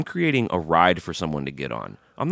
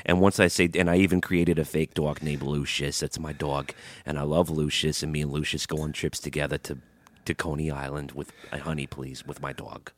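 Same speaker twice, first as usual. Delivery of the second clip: put-on New York accent; 3 semitones lower than usual. Doting on a made-up dog, put-on New York accent. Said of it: "my trigger words are honey and dog".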